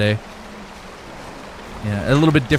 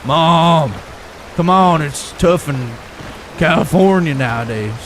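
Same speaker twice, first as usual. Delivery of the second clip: louder and higher pleading, slow; whiny slacker son; 3 semitones higher, 4 dB louder, slower than usual. Pretend. Slacker son begging mom, louder and higher. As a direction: beg mom in a drawn-out whine. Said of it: "I bet you talk like this".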